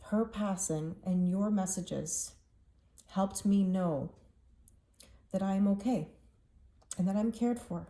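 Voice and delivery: holding back tears; teary. Real, not acted. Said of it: "Sorry that I'm getting so teary about this".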